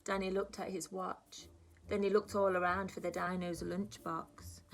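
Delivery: lively, sing-song storybook reading; reading a story to children. A narrator's reading. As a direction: read it like story time for little ones. Teacher reads picture book aloud.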